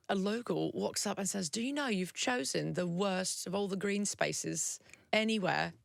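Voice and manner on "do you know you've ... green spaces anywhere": a local's English accent, lightly put on. A Londoner scolding her choice of picnic spot, in English accent. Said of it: "the voice that it made you a different person".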